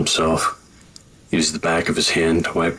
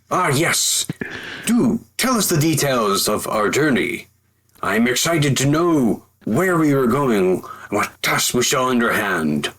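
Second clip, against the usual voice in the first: eager knight; 4 semitones higher than usual. Acted. Silas speaks eagerly in character.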